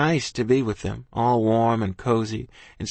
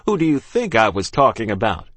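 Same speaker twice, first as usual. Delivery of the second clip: irritated captain; 5 dB louder than usual. Acted. Captain angry at girl.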